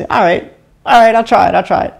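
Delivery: imitated friend giving in. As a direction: imitate a doubter finally agreeing. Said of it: "he was like".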